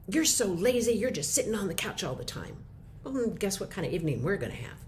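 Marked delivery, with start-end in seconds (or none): 0.1-2.6 nagging accusation. Retold or imitated. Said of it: "If I say".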